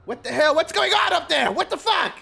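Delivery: high-pitched outraged crowd shout; indignant bystander, voice climbing high; cussing and complaining. Acted. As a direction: yell up the line in protest. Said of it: "cussing and complaining and things like that".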